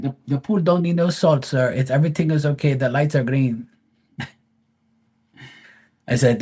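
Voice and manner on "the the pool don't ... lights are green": higher, eager and reassuring; polite pool guy voice. Retold or imitated. Pool guy reassuring the homeowner about the pool, high and eager. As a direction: imitate the pool guy insisting all is fine. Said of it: "And he's like".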